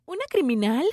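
loud, astonished question; too loud. Retold or imitated. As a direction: blurt it out in shock. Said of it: "Shh, no tan alto". (pregunta en voz alta, atónita)

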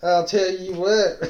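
high, slow drawn-out redneck comic voice; Larry the Cable Guy. Acted. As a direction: stretch it out as a hammy comedian impression. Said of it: "Larry the Cable Guy".

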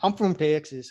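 lightly put-on Texan Southern accent. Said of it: "just have a Southern accent".

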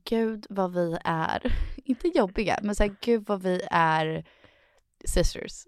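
slow, dragging self-mocking; slow wry quote. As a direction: drawl it in disbelief. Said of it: "out of body experience".

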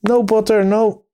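a gloomy mole lamenting the bare larder; doleful groan. A narrator's reading. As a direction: groan it dolorously. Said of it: "groaned the Mole dolorously".

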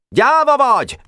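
high-pitched accusing cry; shouted taunt. A narrator's reading. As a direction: fling the insult in a high shout. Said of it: "kiáltott rá". (magas hangú, vádló kiáltás)

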